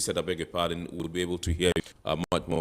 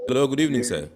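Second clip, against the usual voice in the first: to someone hard of hearing; 6 semitones higher, 6 dB louder than usual. Real, not acted. Host calling to faint caller.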